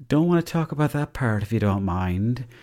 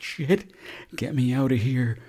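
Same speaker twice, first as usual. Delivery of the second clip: panicked; 3 semitones higher, slower than usual. Retold or imitated. Trapped as footsteps come up.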